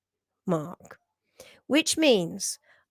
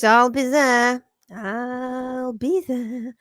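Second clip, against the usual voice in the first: slow, drawn-out southern English accent, lightly put on; southern English accent impression; much slower than usual. Reading a viewer's comment aloud in a lightly mimicked southern English accent. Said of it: "it was a southern accent you nailed".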